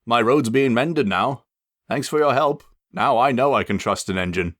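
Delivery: a lightly brighter, grateful bus voice; cheerful thanks. Acted. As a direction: thank the engine gladly. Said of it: "He looked much more cheerful".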